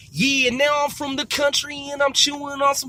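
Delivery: rapping in a mock country accent. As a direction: freestyle like a country rapper. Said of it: "I'm back in my country voice".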